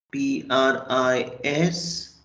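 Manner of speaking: letter by letter, slow and deliberate; spelled out slowly. Shown as a demonstration. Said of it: "spelling the word pris".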